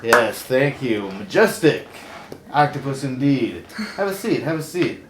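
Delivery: loud, showy host delivery; talk show host. Acted. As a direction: welcome the guest like a TV host. Hosts a TV talk segment.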